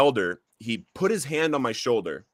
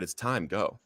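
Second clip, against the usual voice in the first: soft whisper; 3 semitones lower, 7 dB quieter, slower than usual. Retold or imitated. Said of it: "heard him whisper to me".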